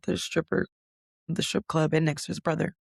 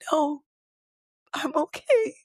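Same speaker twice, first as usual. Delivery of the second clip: high, tearful insistence, retold; fighting tears to say it's fine, a replay; high tearful "I'm okay" through crying; 9 semitones higher than usual. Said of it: "while I'm bawling my eyes out crying".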